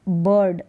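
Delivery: "बर्ड" with an "अर" vowel and half-sounded r; pronunciation demo. Shown as a demonstration. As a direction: model "बर्ड" as a lone word. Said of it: "आई और आर का उच्चारण". (बर्ड का सही उच्चारण, आधा र)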